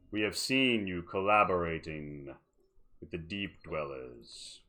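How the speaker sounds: stern elder. Acted. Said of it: "not very happily, and says".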